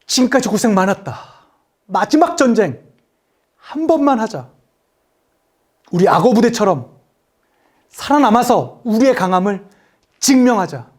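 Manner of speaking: lightly acted commander's pep talk; measured rallying speech with pauses; the speaker's film role. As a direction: address the weary men in short, weighted phrases. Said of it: "젊은 이재훈이 나와가지고".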